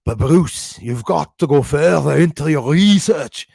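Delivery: slow, lightly put-on Scottish accent; a hint of a Scottish troll, drawn out. Imitating a Scottish troll lecturing Bruce in a Scottish accent. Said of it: "I have some fun with the accents".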